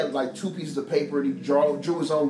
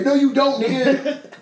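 loud retort; 8 semitones higher, 7 dB louder than usual. Retold or imitated. Retorting to the fan slogan.

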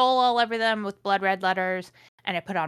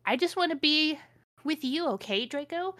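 higher, breathless mock plea; mock swooning heroine; 8 semitones higher than usual. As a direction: plead like a dramatic teen heroine. Ebony's plea read aloud.

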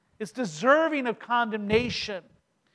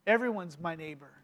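soft repetition; 6 semitones lower, 7 dB quieter than usual. Shown as a demonstration. Preacher repeating the lesson softly to the congregation. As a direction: lower and softer, spoken to sink in. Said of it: "repeated for effect".

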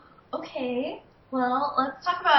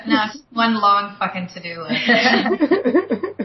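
laughing; 3 dB louder, slower than usual. Real, not acted. Laughing about messy office.

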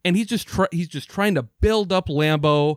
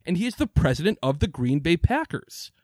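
heated rant, voice pitched well up; he's fuming about the boss, let it climb; 5 semitones higher than usual. Real, not acted. Host ranting about the team president, heated and high. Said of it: "I got heated there once again".

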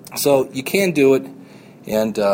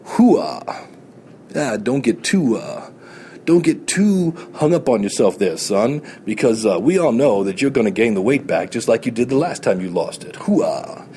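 a hint of a gruff drill-sergeant voice, calling him son; lightly voiced mocking doubter; mild mock sergeant bark of Hoo-ah; nagging inner voice; 3 semitones lower than usual. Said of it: "that voice in the back of my head going".

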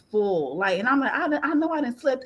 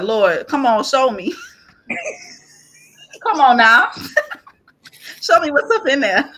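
pleading; 6 semitones higher, 8 dB louder than usual. Retold or imitated. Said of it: "And so I was like".

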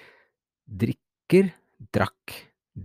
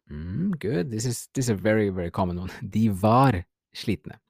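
usual speaking voice

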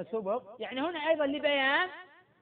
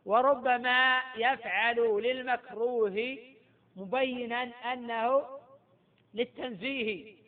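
poem recitation; much slower than usual. Shown as a demonstration. Teacher reciting a verse of al-Maraqi to his class, slow chant. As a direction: intone the verse slowly like a memorised text. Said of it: "قال في المراقي".

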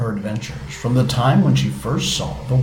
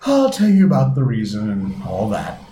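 sleepy yawning voice; words through a yawn; 4 dB louder than usual. Acted. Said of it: "the Mock Turtle yawned".

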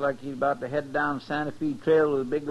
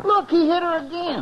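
much higher, louder, alarmed; alarmed exclaim; 13 semitones higher, 5 dB louder than usual. Acted. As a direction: cry out at what you see. Chester watching the fight outside.

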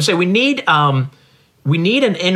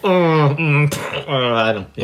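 overdone remorse; 3 semitones lower, 4 dB quieter, much slower than usual. Shown as a demonstration. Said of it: "that's a little extreme".

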